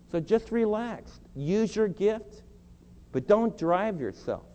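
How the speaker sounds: slow, soothing reassurance to a worn-out pastor; gentle voice of Jesus. Acted. Jesus gently telling David to relax, slow and soothing. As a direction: let each word settle, calm and kind. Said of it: "The Lord Jesus says".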